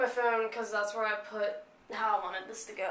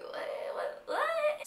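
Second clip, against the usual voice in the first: mock whisper; much slower than usual. Mocking people asking grade.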